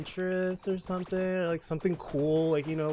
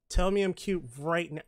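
mock-bossy demand for praise; playful demand; 3 semitones higher, 4 dB louder than usual. Streamer bossing chat into calling her cute, playful demand. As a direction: insist on it, loud and punchy.

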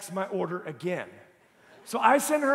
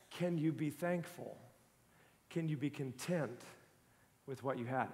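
very soft, low, gentle questioning; hushed inner whisper; 8 semitones lower, 12 dB quieter than usual. Retold or imitated. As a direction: voice a quiet nudge from within, with pauses. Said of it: "I hear this whisper".

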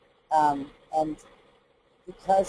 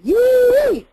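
very high loud yee above the pencil; bright forward yee; 9 dB louder than usual. Shown as a demonstration. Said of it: "I have them compare those two".

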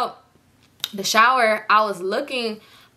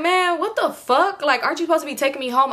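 retold irritation; 6 semitones higher than usual. Woman on the phone to her absent ride, retold exasperation. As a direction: re-enact fed-up disbelief, pitch raised. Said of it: "I was so irritated".

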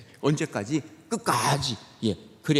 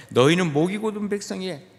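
God's stern rebuke; 7 dB louder than usual. Retold or imitated. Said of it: "그래서".

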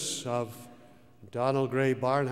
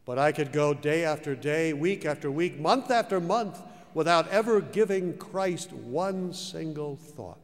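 rising louder and higher through the list; building preaching; 3 semitones higher, 5 dB louder than usual. Acted. Preacher recalling his godless years, building up loud. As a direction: build each phrase to a peak.

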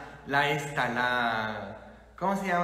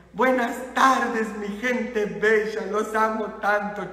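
raised, drawn-out pastor's greeting; cheerful greeting; 3 semitones higher, 3 dB louder than usual. Retold or imitated. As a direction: greet the congregation with affection. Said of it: "y les digo".

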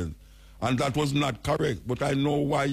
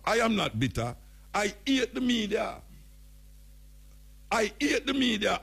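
higher-pitched mock mayor, a touch hammed-up; 7 semitones higher than usual. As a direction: lampoon the mayor's denial in a raised voice. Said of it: "Hear him now".

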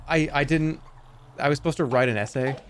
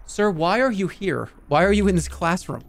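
lightly voiced teacher challenging a student; put-on teacher's challenge; mock exasperated teacher; 6 semitones higher than usual.

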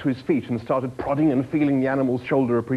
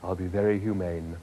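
low, mild obliging animal; understated, courteous comfort; reassuring; 3 semitones lower, 3 dB quieter than usual. Acted. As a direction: soothe the diner as you promise.

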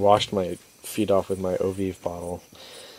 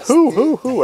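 high mock who; 10 dB louder, slower than usual. Locals mimicked asking about the stranger.

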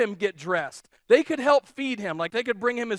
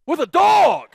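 high, loud disbelief; loud exclamation of disbelief; incredulous exclamation; 8 semitones higher, 9 dB louder than usual. Real, not acted. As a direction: throw it out in amazed disbelief. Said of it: "I begin to negotiate with the dog".

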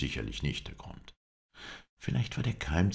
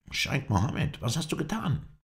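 high-pitched exclaimed question, rising in pitch; calling out; 12 semitones higher than usual. A narrator's reading. Halef confronts the sheik over the freed captive, crying out. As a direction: cry out in alarm at what was done. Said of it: "rief Halef".

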